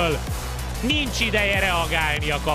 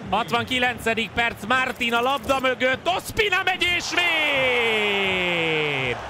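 excited commentary build; 4 semitones higher than usual. Acted. Penalty saved, rising commentary.

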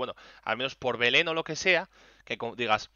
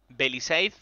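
staff calling the name; slower than usual. Retold or imitated. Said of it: "Y dicen".

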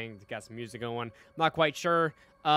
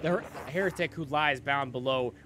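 villain reading. Acted. Reads villain's dialogue aloud.

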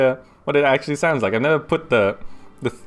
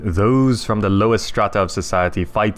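right on the mic, intimate narrator read; close-miked narration; 3 semitones lower than usual. Shown as a demonstration. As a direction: hold the mic to your mouth and narrate. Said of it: "get really close to the mic".

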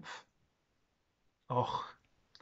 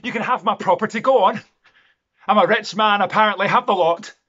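anger building to a high, loud shout; furious defiance; 8 semitones higher, 9 dB louder than usual. Acted. Landowner daring Jamie to take land, money and head, furious. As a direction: hurl each offer louder, up to full shout.

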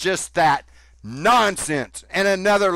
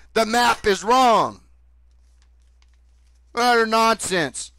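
heated, raised ranting voice; angry rant; 3 semitones higher than usual. Real, not acted. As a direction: rail against them, rising higher.

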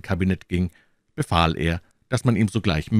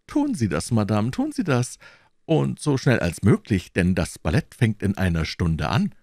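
curt king; 4 semitones higher than usual. Acted. King answers the queen sharply.

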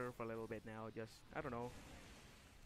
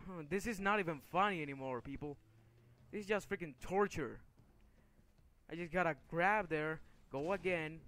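fed up; 4 semitones higher, 5 dB louder than usual. Real, not acted. Fed up with dying repeatedly.

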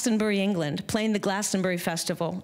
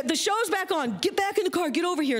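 high, urgent imitation of a screaming dad; mock phone yelling, pitched up; retold screaming; 9 semitones higher than usual. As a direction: rattle off frantic orders in a raised pitch. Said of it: "and he's screaming".

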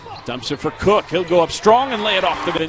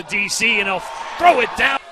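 excited call; 6 semitones higher, 4 dB louder than usual. Real, not acted. Calling a dunk.

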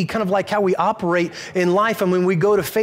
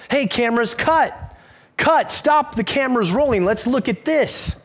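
sudden higher shout of "cut", then bossy; mock film director; 5 semitones higher than usual. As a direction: play a pushy director halting the shoot. Mock director stopping the filming.

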